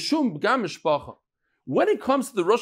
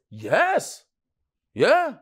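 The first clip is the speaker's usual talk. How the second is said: mocking sing-song yes that means no; sarcastic tune; 5 semitones higher than usual. Answering the eye-poker with a mock yes, sarcastic sing-song. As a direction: sing the yes like you're making fun of him. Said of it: "says it with a tune, with a niggin".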